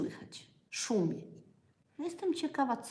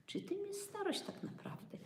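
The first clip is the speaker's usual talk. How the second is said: breathy whisper, much higher; whispered question; 12 semitones higher, 8 dB quieter than usual. Real, not acted. Dramatic rhetorical question to viewers.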